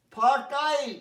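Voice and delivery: ফার্টাইল said as ফা-টাইল, silent R; correct pronunciation. Shown as a demonstration. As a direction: say ফার্টাইল without the R. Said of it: "ফার বললাম না". (ফার্টাইল, আর না বলে)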